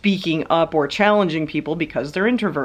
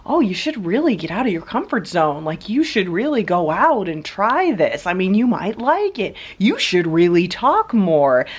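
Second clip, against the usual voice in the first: mock pushy extrovert; 5 semitones higher than usual. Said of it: "It's like".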